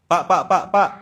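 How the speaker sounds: short, loud repeated calls; calling out. Acted. Calling a man who won't turn.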